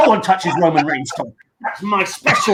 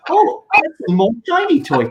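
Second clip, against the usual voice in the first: mock excited Vince; 8 semitones higher than usual. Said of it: "And Vince went like".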